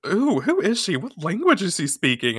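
high, curious gossip; mock-wondering questions; intrigued. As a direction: mimic baffled onlookers. Acted puzzled girls gossiping about her.

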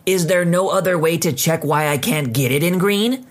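a huffy, put-on customer voice. Customer huffily pressing the clerk to check again. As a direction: sound put out and impatient. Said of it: "she asked huffingly".

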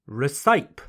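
recipe said as ri-SIPE, rhyming with pipe, rising; wrong recipe. Shown as a demonstration. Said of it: "But no, that's incorrect".

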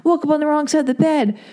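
moody grumbling. Retold or imitated. Podcast intro last week, grumbling moodily. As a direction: grumble about waking up wrong. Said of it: "I was moody".

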